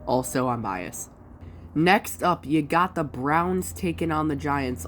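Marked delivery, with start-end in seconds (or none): 1.7-4.9 blocked nose from allergies; stuffy nose. Real, not acted. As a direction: talk through a stuffed-up nose. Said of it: "if I sound, like, stuffy".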